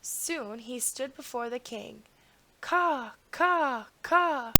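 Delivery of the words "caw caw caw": loud, high crow caws; croaking crows. A narrator's reading. Crows at the king's window cawing high and loud. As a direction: caw out like three crows at the window. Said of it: "croaked the crows".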